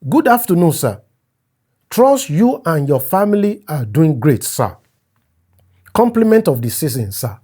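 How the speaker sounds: overly polite message read aloud; a hint of a fawning younger friend; reading a deferential message. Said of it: "This came yesterday".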